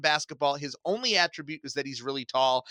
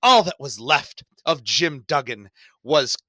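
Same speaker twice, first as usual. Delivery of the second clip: put-on slow, louder old-man British accent; 3 semitones lower, 7 dB louder than usual. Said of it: "the old man British accent of".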